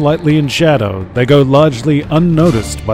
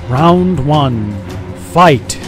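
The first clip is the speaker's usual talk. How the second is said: booming fight announcer; announcer call; 2 semitones higher, much slower than usual. Acted. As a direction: call the round like an arena announcer.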